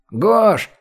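high-pitched call from another room. A narrator's reading. Лёшечка calling Гош from the next room, high call. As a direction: call a friend's name through the flat. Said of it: "крикнул ему из комнаты Лёшечка".

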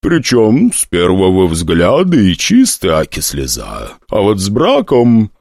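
lightly voiced old hostess, slow; crone hostess. Hostess sizing up the prince, a lightly voiced crone. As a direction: drawl it like a sly old hag.

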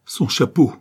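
high, loud exclamation; anguished cry. A narrator's reading. Father seizing the black object, anguished cry. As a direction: cry out in horror. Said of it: "clama-t-il".

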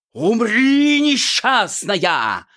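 high, loud, slow hammed-up villain cry; loud overdone villain shout; fierce shout. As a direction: roar the threat, dragging the last word. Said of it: "свирепо крикнул жених".

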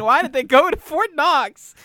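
high, drawn-out disbelief; incredulous. Retold or imitated. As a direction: ask it in mock outrage, slowly. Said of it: "asking myself".

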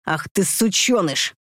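shouted. Acted. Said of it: "крикнул я".

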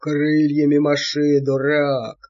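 low, slow creaky devil voice barking orders; old devil squealing. A narrator's reading. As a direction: yell at the dragon in a panic. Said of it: "взвизгнул Анчутка". (визгливо, голосом старого чёрта)

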